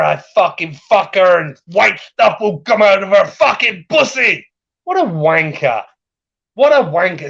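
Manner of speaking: real sweary tirade at an absent rival; worked up and contemptuous, easing off at the end; angry rant. Real, not acted. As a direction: rant indignantly, hammering the swear words. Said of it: "Rant over, Rich".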